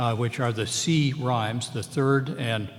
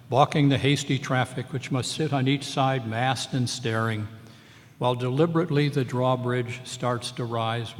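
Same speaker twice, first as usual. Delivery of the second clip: poem reading; 3 dB louder than usual. Acted. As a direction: read the poem aloud, lingering on the stresses.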